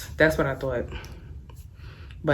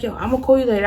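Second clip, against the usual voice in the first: mock casual boyfriend; 8 semitones higher, 5 dB louder, much faster than usual. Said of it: "He like".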